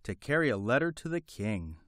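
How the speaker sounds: high, chirpy hen voice; a small bird clucking its words out; little hen voice. Acted. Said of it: "replied the little white hen".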